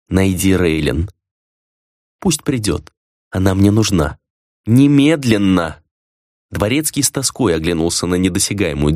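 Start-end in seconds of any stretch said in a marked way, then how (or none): 0.1-5.8 slow, cold orders from the boss; deliberate commanding master voice; stern master's command. A narrator's reading.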